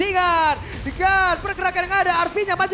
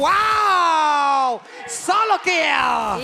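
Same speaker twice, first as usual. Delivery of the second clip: hype shout; much slower than usual. Real, not acted. Caster hype on solo kill.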